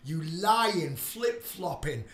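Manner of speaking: loud scornful rant; angry rant. Real, not acted. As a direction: tear into them. Ranting at doubters.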